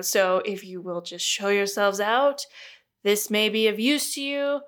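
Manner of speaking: put-on busy scientist's vague invented accent; Caroline's put-on accent. Busy astronomer shooing visitors out, in a light put-on accent. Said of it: "what this accent is I've decided on for Caroline".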